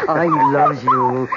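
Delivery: very high, slow adoring coo. Acted. Wife watching the dog gaze at husband, high adoring coo. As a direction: melt over how the dog looks at him.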